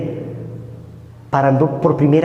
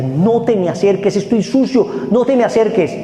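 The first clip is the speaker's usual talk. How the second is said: 1 tearful plea; 6 semitones higher than usual. Retold or imitated. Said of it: "se puso a llorar y decía".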